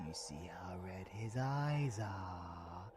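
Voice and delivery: soft, low, menacing whisper. Acted. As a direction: lean in and whisper.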